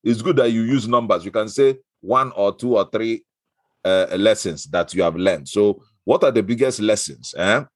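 hammed-up Igbo accent for a game segment. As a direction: play the host in a broad Igbo accent. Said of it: "I pick the Igbo accent".

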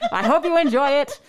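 put-on old Hollywood transatlantic accent; mid-transatlantic accent. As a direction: speak like Cary Grant in a film. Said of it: "That is my Cary Grant slash Katharine Hepburn voice".

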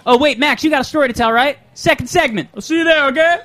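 high playful voice. Real, not acted. Calling over to Max playfully.

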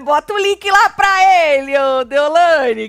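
loud, high, drawn-out teasing holler; gritaria de provocação. Pretend. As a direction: call out to Deolane at full volume, stretching the words. Provoca André e chama Deolane. (gritando alto e agudo, esticando as palavras)

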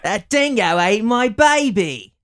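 high, loud, slow mock Australian; exaggerated Australian accent, drawn out and loud. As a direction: wail it in a hammed-up Australian accent. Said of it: "can't pull off an Australian accent".

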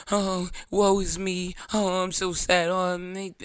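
drawn-out hammed-up lament; mock woe. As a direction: ham up the self-pity. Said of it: "draining energy".

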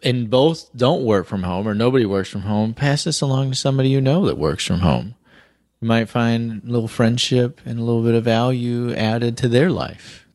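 smooth radio host delivery; late night radio voice. Acted. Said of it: "your soft, like, late night radio voice".

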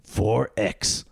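slow, deliberate movie-summary narration; narrating voice. Pretend. Co-host summing up the heist film, narrating voice. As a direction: narrate it like a trailer, spacing out the phrases. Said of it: "my narrating voice".

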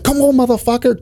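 high, taunting yell-ish retelling; mock tough challenge. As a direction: imitate a guy itching to fight. Quoted guy challenging partner.

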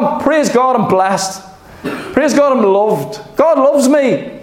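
delighted self-talk with a laugh; joyful laughing. Pretend. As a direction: praise bubbling over with laughter.

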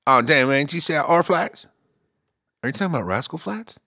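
a fan who can't believe it; excited disbelief. Retold or imitated. Fan hearing the new band name, excited disbelief. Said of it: "people are like".

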